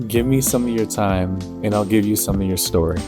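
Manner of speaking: mystical intro over music; loud, mysterious fortune teller voice. Acted.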